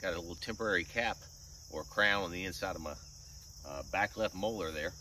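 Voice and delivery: talking out of the side of the mouth. Real, not acted. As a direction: speak from one side of the mouth after dental work. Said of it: "So can only talk out of the side of my mouth".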